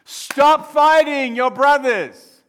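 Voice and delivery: loud, high, drawn-out scolding; dad's shout. Acted. Dad to his fighting boys, exasperated shout. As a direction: holler it slowly at the squabbling boys. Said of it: "my heart as a dad".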